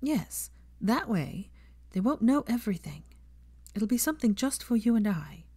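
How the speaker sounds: a hint of earnest Hermione. Hermione confiding in Draco, lightly voiced.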